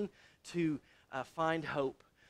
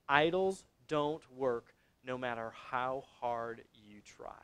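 measured delivery, falling away soft and low; slow, deliberate statement; 4 semitones lower, 3 dB quieter than usual. Real, not acted. Preacher giving the congregation the key point, slow and sinking. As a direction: lay the point down slowly, dropping off at the end.

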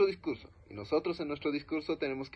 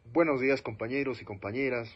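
politician voice. Shown as a demonstration. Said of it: "ya me suena más político".

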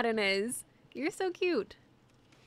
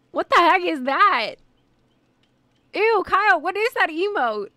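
grossed out; 5 semitones higher, 9 dB louder than usual. Real, not acted. Reacting to a gross emote.

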